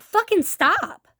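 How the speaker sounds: retold fed-up protest; exasperated outburst. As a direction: act out finally losing patience. Retold snapping at housemate.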